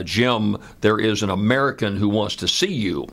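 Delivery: lightly imitated French accent. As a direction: quote him with a hint of a French accent. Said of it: "in a French accent".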